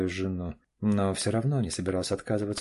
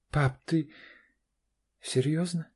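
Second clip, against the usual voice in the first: higher, doubting question; incredulous; 7 semitones higher, slower than usual. A narrator's reading. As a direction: ask in disbelief. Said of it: "недоверчиво спросила Карина". (недоверчиво)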